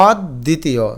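অদ্বিতীয় split as "awd-ditiyo"; careful pronunciation. Shown as a demonstration. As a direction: break অদ্বিতীয় after the first closed d. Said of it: "এটা উচ্চারণ করে দেখো". (অদ্বিতীয়, অদ্ আর দ্বিতীয় ভেঙে)

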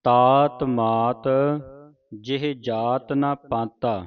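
slow, measured teaching recitation; scripture recitation. Shown as a demonstration. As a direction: draw each word out for students to follow. Reads scripture for students to follow.

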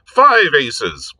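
cheerfully crowing. A narrator's reading. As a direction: announce it gleefully, like a winning hand. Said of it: "said Lord Peter cheerfully".

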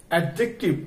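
অ্যাডজেক্টিভ with the silent d wrongly sounded; common mispronunciation. Shown as a demonstration. Teacher showing learners a common slip, mispronounced with sounded d. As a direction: say অ্যাডজেক্টিভ as "ad-jek-tiv", d audible. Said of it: "এই দুটো উচ্চারণই ভুল".

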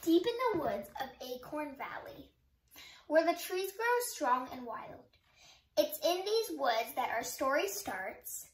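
put-on lively read-aloud for young kids; gentle children's story reading; storybook narration. A narrator's reading. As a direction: tell it like a bedtime story, rhyme lilting. Reads picture book aloud.

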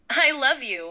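warm and friendly. Acted. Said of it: "In a warm and friendly tone".

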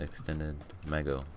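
tongue-tied "Mego"; speech slip. Real, not acted. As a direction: garble "Mego", swallowing the end of "mag". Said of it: "And a speech impediment".

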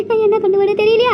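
high, whining comic sob; comic crying. Acted. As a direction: blubber while insisting she's brave. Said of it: "அழுதுகிட்டே இருக்கிறேனே".

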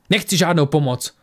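sharp, spiteful shot back; venomous retort. Acted. Tora rejecting Lisbeth's offered help, venomous. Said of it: "jedovatě vystřelila Tora".

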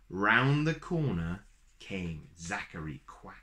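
put-on lilting read-aloud rhythm for a children's picture book; storybook reading. A narrator's reading. Uncle reading a rhyming book to little kids, lilting storyteller voice. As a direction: read it like a bedtime story, bouncy verse.

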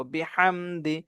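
slow "বিহামদি" with a strong throaty h; drawn-out "বিহামদি", h pressed from the throat. Shown as a demonstration. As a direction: squeeze the h of "বিহামদি". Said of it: "চাপ দিয়ে পড়ব".

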